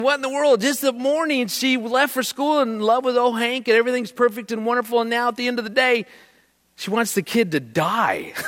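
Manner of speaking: high-pitched, incredulous rant; baffled disbelief. Retold or imitated. Dad puzzles over daughter's sudden change, high baffled disbelief. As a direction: pitch it way up, bewildered and rattling on.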